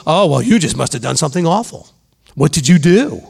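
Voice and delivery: lightly mocked accusing tone; a hint of a nosy accuser pointing the finger; judgmental accusing. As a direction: play the judgmental busybody, but only lightly. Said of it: "talk like that to other people".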